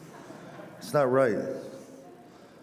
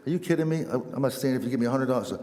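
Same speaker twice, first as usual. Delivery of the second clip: mock incredulous; 2 semitones higher, faster than usual. Old man refuses to stay for Mass, mock incredulous. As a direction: scoff at the offer, lightly acted.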